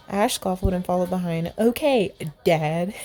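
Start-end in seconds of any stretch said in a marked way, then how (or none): 1.6-2.9 put-on eye-rolling teenage sass; sassy. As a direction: tease him like a bratty kid. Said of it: "sassy attitude".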